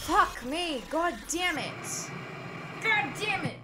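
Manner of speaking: real rage building; frustrated cursing. Real, not acted. Failing the puzzle again.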